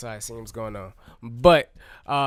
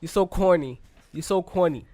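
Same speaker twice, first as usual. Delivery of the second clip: put-on New York accent; 3 semitones higher than usual. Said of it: "That's my, that's my New York accent".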